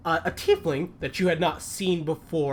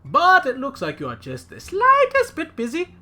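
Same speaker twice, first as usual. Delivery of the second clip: pompous mayor; 4 dB louder than usual. Acted. Mayor voiced by game master.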